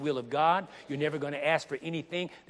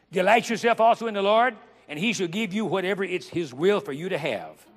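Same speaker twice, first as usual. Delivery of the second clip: scripture proclaimed; 3 semitones higher, 5 dB louder than usual. Acted. Preacher reading scripture aloud.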